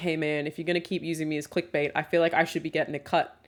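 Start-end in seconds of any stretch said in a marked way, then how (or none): none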